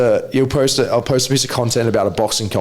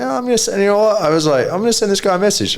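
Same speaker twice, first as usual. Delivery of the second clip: retold inner voice; 8 semitones higher, faster than usual. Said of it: "I was just like".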